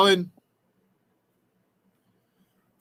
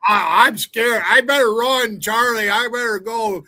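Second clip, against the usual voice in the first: higher, feigned panic; mock scared; 5 semitones higher than usual. Billy taunting Colin as too tough, mock fear. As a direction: pretend to be frightened of a tough guy.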